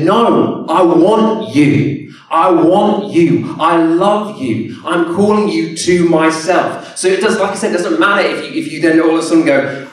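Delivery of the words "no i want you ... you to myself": loving voice of Jesus. Acted.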